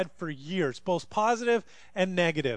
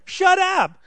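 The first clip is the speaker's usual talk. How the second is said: put-on high, loud toddler yelling shut up; toddler shouting; 11 semitones higher, 8 dB louder than usual. Nephew in the corner yelling at family, high toddler shout. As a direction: bark it like a bossy two-year-old. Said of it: "Goes to his brother".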